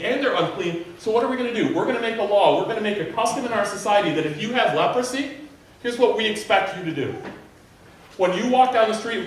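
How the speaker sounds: ordinary talk, nothing marked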